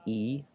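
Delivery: long "ee" vowel for "E"; long E sound. Shown as a demonstration. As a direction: say "E" as a drawn-out "ee". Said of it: "but E".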